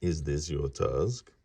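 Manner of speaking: slow, lightly voiced old man. Old man holding up the tusk, slow lightly aged voice. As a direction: ask slowly like an old man. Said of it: "the old man asked".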